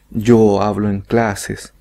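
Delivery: "Yo hablo en clases" said slowly, the pronoun kept; wrong form. Shown as a demonstration. Teacher showing students what Spanish speakers don't say. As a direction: slowly show the unnatural form with "Yo". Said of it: "no decimos".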